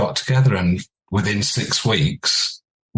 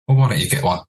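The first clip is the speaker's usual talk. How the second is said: DJ's reply; 5 semitones higher, faster than usual. Retold or imitated. DJ voiced in story.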